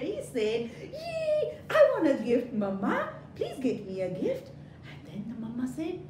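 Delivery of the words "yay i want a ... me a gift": high eager begging; excited child. Acted. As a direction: plead happily for a gift. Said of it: "exactly what the little boy said".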